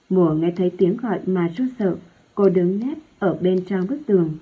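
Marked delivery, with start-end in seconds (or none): none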